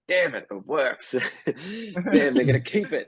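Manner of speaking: high, laughing mock dismay; playful exasperation breaking into a laugh; mock frustration. Acts out his dismay, laughing.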